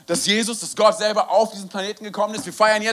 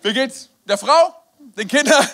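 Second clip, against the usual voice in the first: louder, higher mock small talk; acted hearty greeting; 3 semitones higher, 6 dB louder, slower than usual. Speaker greets the man who came to meet him, acted hearty. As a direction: greet him with exaggerated cheer.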